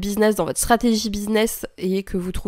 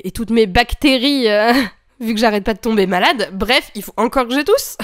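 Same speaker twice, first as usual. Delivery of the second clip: morning voice. Real, not acted. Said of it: "vous l'entendez".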